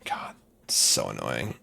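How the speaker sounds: annoyed whisper under the breath; whispered annoyance. Real, not acted. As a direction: hiss it to yourself, fed up. Muttering annoyed to self.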